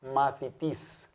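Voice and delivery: Mathitis slowed right down, th clear; slow demo. Shown as a demonstration. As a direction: spell out Mathitis slowly for students. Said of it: "La cita, sonido como T H". (Mathitis despacio, con th clara)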